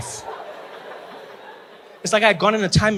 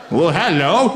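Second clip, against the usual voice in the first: posh hello; 4 dB louder, much slower than usual. Pretend. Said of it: "you'll be like".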